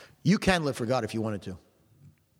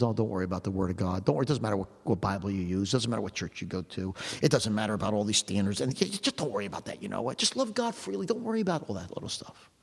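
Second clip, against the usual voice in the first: lower, softer coaxing voice of a tempter; 5 semitones lower, 3 dB quieter than usual. Retold or imitated. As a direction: lull them gently, pitched down and hushed. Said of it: "whisper in your ear and says".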